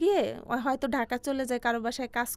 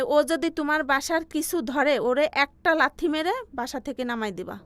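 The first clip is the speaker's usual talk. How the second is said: uncle's harsh order; 3 semitones higher, 6 dB louder than usual. Retold or imitated. Uncle warning his wife about the niece, retold harshly. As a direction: imitate a stern uncle giving a harsh order. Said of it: "আমার চাচা বলে".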